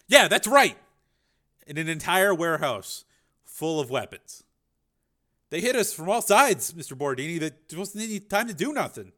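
a nervous gangster making excuses; scared hood talking fast to the boss; gang thug voice. Acted. Gang member voiced in story.

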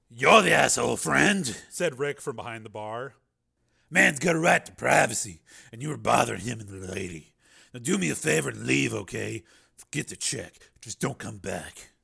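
Rick the bartender. Acted. Bartender Rick ordering the patron out, firm. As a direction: throw the guy out calmly.

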